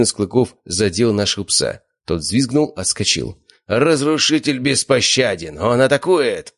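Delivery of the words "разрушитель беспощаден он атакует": announcer shout. A narrator's reading. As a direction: bellow the play-by-play. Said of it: "закричал ведущий".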